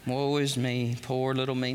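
whiny woe-is-me; mock self-pity. Preacher mocking himself, mild woe-is-me whine. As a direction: pity myself like a martyr. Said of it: "just go".

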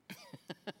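soft, breathy chuckle; amused chuckle. Real, not acted. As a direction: chuckle quietly before the funny bit. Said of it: "I'm sorry I'm laughing".

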